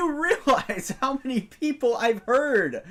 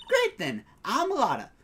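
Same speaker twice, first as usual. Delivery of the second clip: put-on Lotta Hart, Southern accent. Photographer introducing herself to visitors, friendly Southern accent. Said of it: "you're better with a Southern accent than me".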